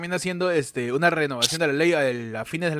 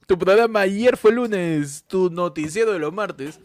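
show announcer. Acted. Show intro read. (presentador de noticiero)

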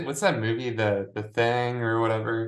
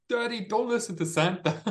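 put-on higher little-kid plea; childish voice; 12 semitones higher than usual. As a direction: beg like a small child.

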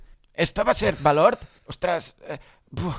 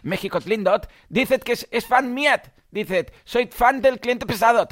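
higher put-on voice with a mock t tacked onto word endings; hammed-up funny voice; 4 semitones higher than usual. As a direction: clown it up, adding a t to words. Comic put-on voice after jingle.

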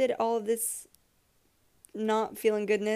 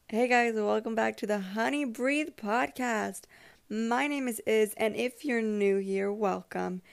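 a touch more upbeat intro; more enthusiasm. Shown as a demonstration. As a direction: perk up a little for the welcome. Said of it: "with maybe a little more enthusiasm".

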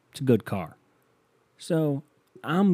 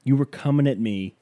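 retold yelling. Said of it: "he's yelling at me now".

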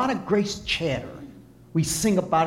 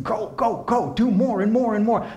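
mock slave driver; 7 semitones higher, 4 dB louder than usual. Mocking a driving, demanding God.

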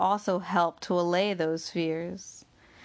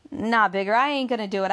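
raised refusal; 3 semitones higher, 5 dB louder, faster than usual. Acted. Bessie refusing Bigger's dangerous plan, raised and loud. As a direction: push back hard, voice up and loud.

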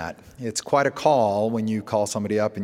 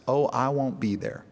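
lightly imitated North Carolina twang; a hint of a Southern father's twang; retold with a slight North Carolina twang; 3 semitones higher than usual. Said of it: "he's got a twang".

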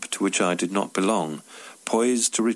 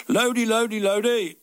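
energetic yell; 10 semitones higher than usual. Retold or imitated. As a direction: bellow it back out of the window, grinning. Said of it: "yelled energetically back across the road".

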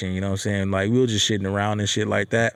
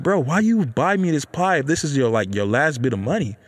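high-pitched start, settling to usual pitch; concerned questioning; 4 semitones higher than usual. Acted. Son questioning dad spending his last money, concerned. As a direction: voice lifts in worried disbelief. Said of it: "I'm just concerned".

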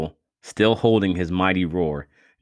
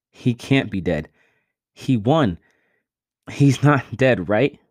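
rising high, louder tearful pleading; desperate pleading; 5 semitones higher, 4 dB louder than usual. A narrator's reading. Vince refusing to believe Miko is dead, pleading. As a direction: beg it not to be true.

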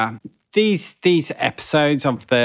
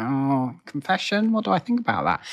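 mock puzzled; 3 semitones higher, 3 dB quieter than usual. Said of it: "you're like".

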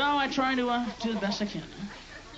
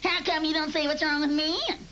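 audience heckler; 5 semitones higher, faster than usual. Retold or imitated. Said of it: "in the audience going".

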